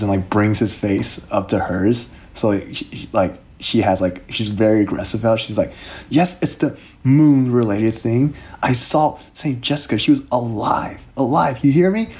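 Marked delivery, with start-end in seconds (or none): 6.1-12.1 higher, slow, pressing hard; fierce princess insisting in a higher voice; intense Shauna. Acted. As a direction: grip him and drive each word home. Shauna grabs him, very aggressive.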